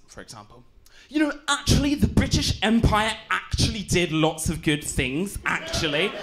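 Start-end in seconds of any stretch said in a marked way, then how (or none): 1.1-6.1 posh English apologist. Shown as a demonstration. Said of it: "that sounds really believable in this voice".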